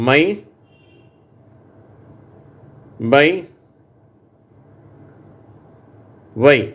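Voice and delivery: மை, பை, ஒய் each said alone with a long ai, spaced for echo; repeat-after-me words. Shown as a demonstration. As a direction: model each word slowly for the class to repeat. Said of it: "நான் படிக்கிறேன், சொல்லுங்க".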